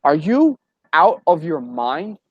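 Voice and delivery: mock the wife's disbelief; wife scolding. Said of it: "She goes".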